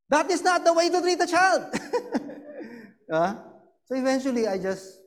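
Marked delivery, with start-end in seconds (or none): 0.1-3.1 laughing. Retold or imitated. Wife quotes mother-in-law, laughing.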